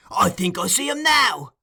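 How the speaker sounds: excited cry. Acted. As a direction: cry it out, picturing him. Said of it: "cried the Jew".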